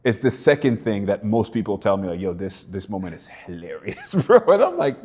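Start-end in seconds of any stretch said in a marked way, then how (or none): 2.2-4.4 laughing. Retold or imitated. Quoting fans, laughing.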